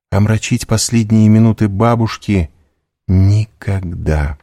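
put-on a frightened girl refusing to defy her family; high, tense, protesting young woman; Valentina, distressed. Valentina voiced by narrator.

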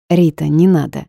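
ordinary delivery

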